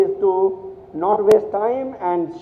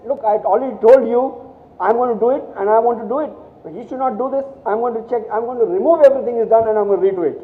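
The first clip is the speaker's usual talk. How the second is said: pitched up, insisting on her own work; mock-indignant, higher and pushing; proud insistence; 5 semitones higher, faster than usual. Sue refusing to let John's work stand, higher and insistent. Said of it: "it was pride for her".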